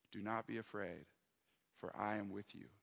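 soft, hushed reassuring words; gentle reassurance. Retold or imitated. God's voice telling the anxious pastor not to fear, hushed and soft. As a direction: speak softly, as if calming a frightened child. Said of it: "what God was speaking to me".

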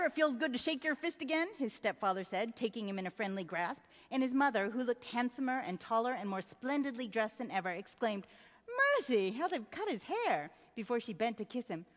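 measured literary read-aloud; storytelling read with voiced characters; story narration. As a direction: read the novel passage to an audience. Reads novel passage aloud.

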